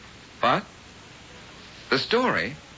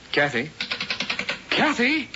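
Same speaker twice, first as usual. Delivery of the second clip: sharp high call into the phone; 7 semitones higher than usual. Acted. Reporter calls into a dead phone line, alarmed. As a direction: call her name, alarmed.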